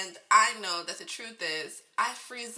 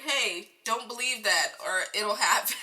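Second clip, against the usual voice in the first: laughing retort; 4 dB louder than usual. Retold or imitated. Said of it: "And I'm like".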